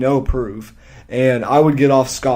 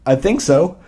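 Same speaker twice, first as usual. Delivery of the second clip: sarcastic; 3 semitones higher than usual. Retold or imitated. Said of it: "my sarcastic ass".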